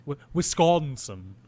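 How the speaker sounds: "Wisconsin" slowly, with a rounded "aw" in the middle. Shown as a demonstration. Host tries again for co-host, slow rounded "Wisconsin". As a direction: stretch "Wisconsin" into "Wis-cawn-sin". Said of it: "Who are you, Count Dracula?".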